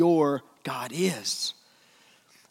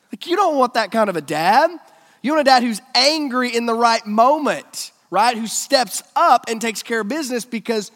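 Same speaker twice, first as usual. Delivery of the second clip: emphatic preaching; 7 semitones higher, 8 dB louder than usual. Real, not acted. Preacher driving his point home.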